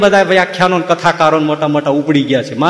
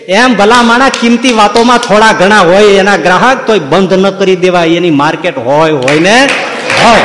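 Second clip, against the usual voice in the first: heated insistence; 3 semitones higher, 3 dB louder than usual. Real, not acted. Preacher argues heatedly.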